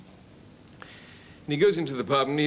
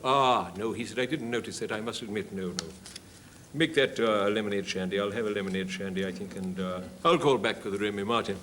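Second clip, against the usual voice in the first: put-on old touring actor; 4 semitones lower than usual. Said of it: "a story about an old boy who's on tour".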